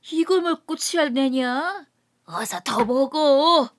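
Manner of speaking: put-on a drunk rickshaw man showing off his earnings; drunk laborer boasting. Drunk Kim boasting over drinks. (술 취해 떠벌리는 인력거꾼)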